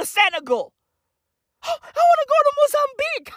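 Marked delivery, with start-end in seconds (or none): 1.6-3.3 mocking Americans. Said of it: "They wanna find themselves".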